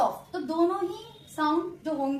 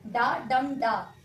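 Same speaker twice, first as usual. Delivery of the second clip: डा डम डा slowly, stress on the middle डम; three spaced beats, strongest on डम; light डा, firm डम, light डा; soft hard soft; 3 semitones lower, much slower than usual. Shown as a demonstration. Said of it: "unstressed stressed unstressed".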